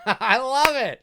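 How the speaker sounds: high, loud laughing gush; laugh, then draw out the love; real giggly enthusiasm; laughing delight. Real, not acted. Delighted after quoting the line.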